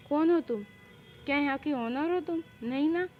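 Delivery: acted cheeky confrontation; defiant challenge. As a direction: challenge their authority, voice lifted. Defiant quarrel with ma'am.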